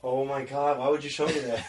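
shocked, appalled laugh; disgusted laughter. Real, not acted. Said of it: "That's so mean".

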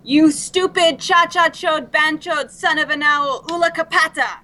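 lightly voiced mock foreign insults. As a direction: sneer the made-up insults in a silly voice. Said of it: "I think they only understand".

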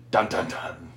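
low-key spoken "dun, dun, dun"; understated mock-ominous reveal; mock suspense sting. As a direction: hum out a soft dramatic sting.

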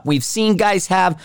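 hiccuping mid-sentence; with hiccups. Real, not acted. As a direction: talk through a hiccup. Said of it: "I'm hiccuping 'cause I'm not breathing".

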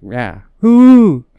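loud imitated whoo of excitement; mock cheer. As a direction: act out a fan's cheer. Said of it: "And it's like".

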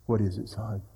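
low, soft question; imitated gentle pastor. Pastor leaning down to a crying boy, gentle. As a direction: lean down to a child, hushed and low.

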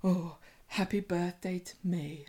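soft, unvoiced mock-glum whisper; sulky mutter. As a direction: whisper it bitterly to yourself. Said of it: "She keeps going".

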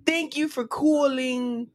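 measured New York accent with a pause before the last word. Shown as a demonstration. Friend asked for New York, New York accent. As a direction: give it a New York sound. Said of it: "Do a New York accent".

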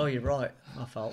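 mock apology in an Australian accent; put-on Australian accent. Co-host corrected on his accent, mock Australian. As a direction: concede in a broad fake Australian accent.

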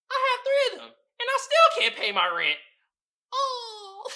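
high, hammed-up crying woman; mock tearful woman. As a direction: whine it like an overworked woman in tears. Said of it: "This is what she says".

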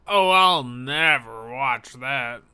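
loud, slow, grumbling complaint; grumpy ranting stranger. Retold or imitated. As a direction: grump it out like a sour larper. Grumpy stranger rants about movies.

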